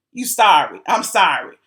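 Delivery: mock contempt in a low impression; a musician. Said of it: "in my Ike Turner voice".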